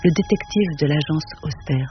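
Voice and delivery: measured, even reading of a novel; story narration. A narrator's reading. Reading Auster's novel to an audience, steady literary narration. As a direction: read it to the room, unhurried and calm. Reads Cité de Verre aloud.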